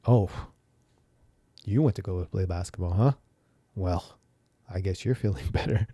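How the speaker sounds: mock snide "you went to go play basketball, huh?"; lightly voiced sarcastic wife. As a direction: imitate a wife's dry, sarcastic jab. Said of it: "but this is what it sounded like".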